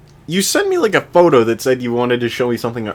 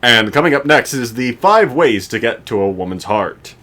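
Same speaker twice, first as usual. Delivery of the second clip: announcer voice. Acted. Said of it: "I sounded like a, like an announcer".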